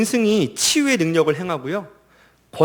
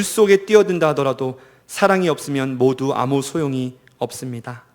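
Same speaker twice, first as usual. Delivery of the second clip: scripture reading; 3 dB louder than usual. Acted. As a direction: read the verses out to the congregation. Reads Corinthians passage aloud. (힘 있게 시작해 차분히 맺는 성경 낭독)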